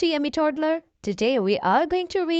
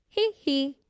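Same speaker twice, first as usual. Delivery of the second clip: put-on a read-aloud toddler giggle; giggling. A narrator's reading. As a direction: giggle it like a little brother. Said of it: "George giggles".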